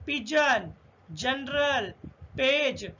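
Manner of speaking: पिजन, जनरल, पेज with a J sound for G; G read as J. Shown as a demonstration. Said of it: "उसको हम जा पढ़ेंगे".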